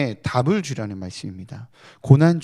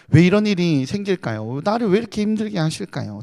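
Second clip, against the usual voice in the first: higher, louder pressing why; mock-challenge God with a raised pitch; demanding question; 5 semitones higher, 4 dB louder than usual. Job pressing God for answers, higher protest. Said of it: "하나님께 이렇게 따져 묻습니다".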